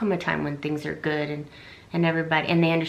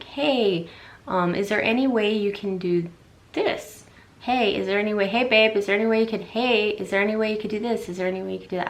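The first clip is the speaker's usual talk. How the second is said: gentle, friendly request to your partner; sweet asking tone; 3 semitones higher than usual. Shown as a demonstration. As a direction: ask nicely, like you want to keep the peace. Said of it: "So tone".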